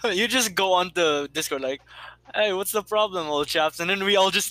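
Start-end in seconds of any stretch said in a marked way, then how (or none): 2.3-3.8 mock-British chap, starting pitched up; lightly hammed British greeting; imitated British accent. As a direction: tease a friend's put-on British. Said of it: "speaking all British and stuff".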